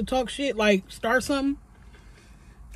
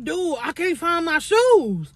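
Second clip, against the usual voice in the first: whiny excuse; 5 semitones higher, slower than usual. Retold or imitated. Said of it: "I'm like".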